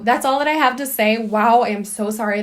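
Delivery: shaky, nervous voice. Real, not acted. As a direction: speak with nervous jitters in the voice. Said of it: "a nervous, shaky voice right now".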